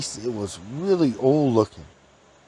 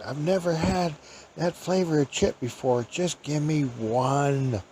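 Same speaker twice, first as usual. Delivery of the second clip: put-on higher, quiet old woman voice; old lady voice; 4 semitones higher, 5 dB quieter than usual. Storyteller voicing the old lady.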